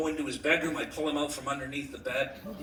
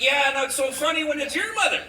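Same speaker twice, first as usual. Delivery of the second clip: loud, high-pitched comeback; defiant retort; 10 semitones higher, 7 dB louder than usual. Acted. Son gets back at father, defiant retort. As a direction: throw it back at full volume.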